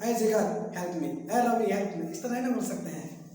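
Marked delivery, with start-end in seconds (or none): 0.0-1.1 scolding. Shown as a demonstration. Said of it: "डांट कर बोल सकते हैं". 1.1-2.1 scolding. Shown as a demonstration. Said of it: "डांट कर बोल सकते हैं".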